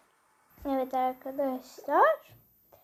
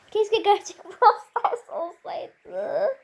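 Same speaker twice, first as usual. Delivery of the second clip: laughing wish; 3 semitones higher, much slower than usual. Real, not acted. Laughing over the fake game.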